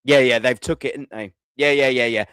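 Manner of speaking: mock City player. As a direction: imitate a smug rival player. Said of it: "A win goes".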